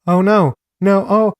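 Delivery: high, loud cries of dread; acted crying shouts. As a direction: imitate someone shouting out in fear. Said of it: "begins crying and shouts".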